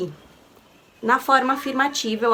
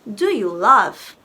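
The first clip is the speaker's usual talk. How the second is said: slow modelling; 2 semitones lower, much slower than usual. Shown as a demonstration. Teacher modelling an English question for students, slow and clear. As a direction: Do you love spoken very slowly and clearly. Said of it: "teacher modelling English question".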